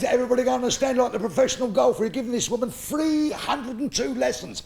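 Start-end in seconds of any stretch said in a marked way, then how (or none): 2.0-4.6 shouting golf pro at his wits' end; exasperated shout. Acted. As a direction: bellow it in disbelief.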